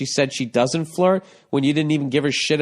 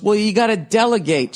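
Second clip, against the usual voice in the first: mock whiny man; 9 semitones higher, 4 dB louder than usual. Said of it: "And he goes".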